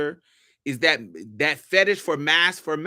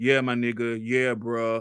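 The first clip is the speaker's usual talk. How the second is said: put-on deep voice, deliberately dropped low; 5 semitones lower than usual. Speaker shows the voice they give on the phone: put-on deep voice. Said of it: "I'm giving you my deep voice".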